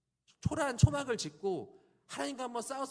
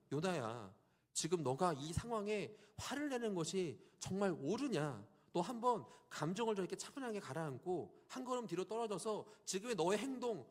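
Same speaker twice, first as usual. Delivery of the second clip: gentle calm God. Acted. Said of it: "다정하게 말씀하십니다. 다정하게요. 화를 내지 않으세요".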